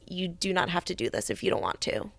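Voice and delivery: softly imitated mom, reassuring; gentle reassurance. Mom to her crying daughter before a trip, gently reassuring.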